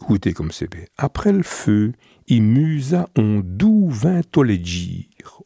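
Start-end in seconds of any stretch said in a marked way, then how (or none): 2.3-5.4 spoken slowly and gently, savouring each word; slow and gentle. Shown as a demonstration. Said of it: "Oh, comme c'est bien dit". (dit lentement et doucement, en savourant les mots)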